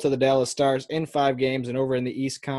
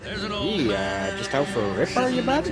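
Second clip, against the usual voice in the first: mock Canadian accent. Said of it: "do the rest of this podcast in Canadian accents".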